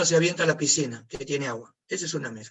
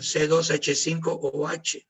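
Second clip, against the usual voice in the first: slow dictation; slower than usual. Shown as a demonstration. Teacher dictating chemical formula.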